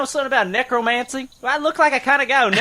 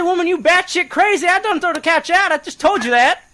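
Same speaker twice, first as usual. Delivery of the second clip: heated retort; 9 semitones higher than usual. Retold or imitated. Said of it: "I said".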